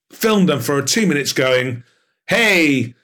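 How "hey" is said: put-on a light American accent; lightly imitating an American celebrity promo. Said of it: "forgive my American accent".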